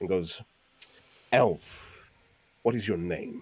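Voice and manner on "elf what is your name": angry, furious, pointed delivery. Voicing a turtle priest glaring at the elf: fury directed at Kaizana. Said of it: "directing the fury at Kaizana".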